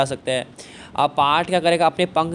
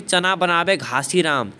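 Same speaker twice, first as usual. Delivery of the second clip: quoting the verse; slower than usual. Shown as a demonstration. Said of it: "क्या बोला, देखिए".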